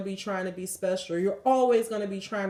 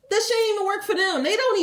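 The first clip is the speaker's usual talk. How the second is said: getting mad; 9 semitones higher, 4 dB louder, faster than usual. Real, not acted. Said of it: "I don't know why I'm getting mad".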